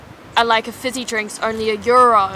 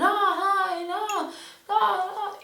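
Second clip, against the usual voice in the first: chatty local greeting; 9 semitones higher, 7 dB quieter, slower than usual. Retold or imitated. Imitating townsfolk greeting each other.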